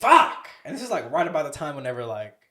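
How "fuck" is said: sudden high-pitched retold curse; panicked outburst. Driver retelling his traffic stop to friends, panicked outburst. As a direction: burst out much higher and louder, acting the panic.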